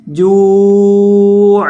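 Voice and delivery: جوع slow, ending on a clear throaty عین; clear ain at end. Shown as a demonstration. Teacher modelling the final ain for students. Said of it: "آخر پہ عین کی آواز نکالنی ہے".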